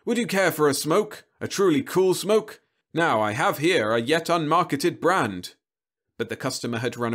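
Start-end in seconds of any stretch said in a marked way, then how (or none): 0.1-5.6 salesman robot. Acted. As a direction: greet him like a tireless vending robot. Robot pitches a smoke.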